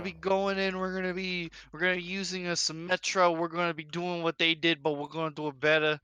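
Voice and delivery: put-on light Brooklyn tough-guy accent; a hint of a Brooklyn gangster. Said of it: "bringing out your Brooklyn accent".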